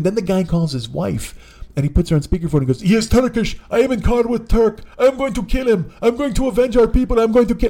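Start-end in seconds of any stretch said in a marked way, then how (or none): 2.8-7.7 put-on high-pitched accented ranting; screaming Armenian passenger. Armenian husband raging to his wife on speakerphone, accented screaming. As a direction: rant into the phone in an Armenian accent. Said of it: "he starts screaming it".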